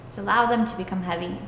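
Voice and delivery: calm, even meditation voice with long pauses; guided meditation. Acted. Yoga teacher leading students into stillness and breath, guided meditation. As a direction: guide them unhurriedly, leaving space between phrases.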